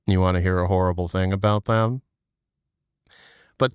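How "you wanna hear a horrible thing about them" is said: sly gossip. Retold or imitated. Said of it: "I'm like".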